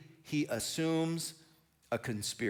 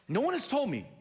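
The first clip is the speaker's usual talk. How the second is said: indignant whine; 11 semitones higher than usual. Acted. Preacher voicing Saul griping to his men, high indignant whine. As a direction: voice jumps much higher in hurt outrage.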